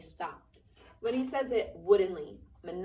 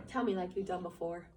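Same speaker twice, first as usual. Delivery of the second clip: crafty. Acted. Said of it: "Lenny said craftily".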